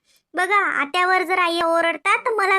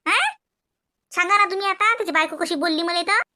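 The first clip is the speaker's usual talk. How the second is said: scolding mother. Acted. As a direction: nag and jab at her with every line. Mother scolds, quarrels loudly. (भांडखोर सासू रागाने ओरडते)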